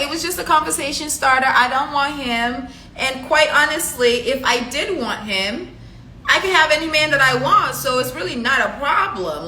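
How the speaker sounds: acted-out boastful denial; defensive retort. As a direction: argue back with mild indignation. Retelling her quarrel with friend.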